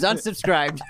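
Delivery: high, laughing unsubscribed; a playful high pout; mock unsubscribe. Punchline of reading comments.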